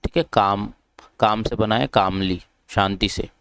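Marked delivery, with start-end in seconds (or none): 0.3-0.7 "काम" as kaam, no L sounded; long "aa" straight into M in "काम"; silent L. Shown as a demonstration. Teacher shows the root of कामली, "काम" with silent L. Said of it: "इसमें जो एल है वो silent है". 1.9-2.4 "कामली" built as kaam plus lee; silent L. Shown as a demonstration. Teacher derives it from काम, "कामली" with silent L. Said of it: "इसमें जो एल है वो साइलेंट है".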